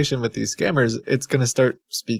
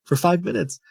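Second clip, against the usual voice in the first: mock passive-aggressive complaint, pitched up; Beverly; 5 semitones higher than usual. Robot Beverly griping at scammers, mock passive-aggressive. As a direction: imitate a put-upon caller griping. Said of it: "Beverly is just really passive aggressive".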